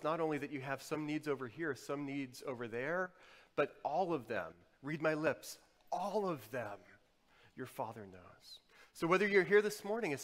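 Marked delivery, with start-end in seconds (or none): 3.5-6.8 "all" leaned on as the key word; stress on ALL. Shown as a demonstration. Preacher stressing the Father knows every need, stress on ALL. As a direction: make "all" carry the phrase. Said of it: "in an emphatic position to emphasize".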